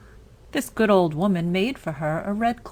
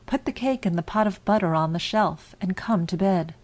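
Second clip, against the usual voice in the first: muffled voice. Acted. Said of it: "called out in a muffled voice".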